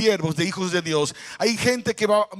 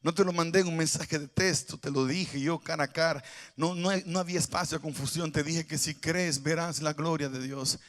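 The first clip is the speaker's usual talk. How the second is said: tender rebuke; 5 semitones lower, 10 dB quieter than usual. Acted. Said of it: "la miró con ternura".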